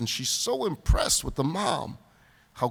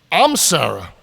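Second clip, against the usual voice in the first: louder, breaking into a laugh on the reveal; laughing punchline; 2 semitones higher, 10 dB louder than usual. Acted. The mother reveals she was calming herself, laughing. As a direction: land the twist with a laugh.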